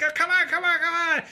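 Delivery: put-on high-pitched drunk coaxing; repetitive, whiny-high drunk urging; pestering drunk. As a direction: imitate a tipsy guy badgering for a go. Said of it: "you know, drunk guy".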